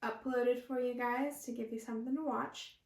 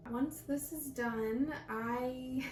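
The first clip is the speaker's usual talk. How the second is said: sing-song; much slower than usual. Real, not acted. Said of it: "I need to stop sing-songing".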